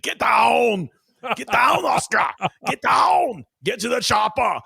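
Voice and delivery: put-on loud, high Austrian-accented shout; Schwarzenegger. Husband echoing his wife at the dog, mock Austrian bellow. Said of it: "next to Arnold Schwarzenegger".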